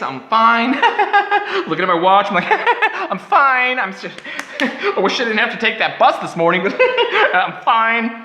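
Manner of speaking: strained 'I'm fine' broken by nervous laughs; mock reassurance while freaking out inside; forced calm. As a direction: pretend to be fine through laughter. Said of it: "But I wasn't fine".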